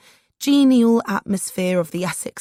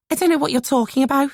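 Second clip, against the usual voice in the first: sneering; 7 semitones higher, 3 dB louder, faster than usual. A narrator's reading. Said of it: "she sneers".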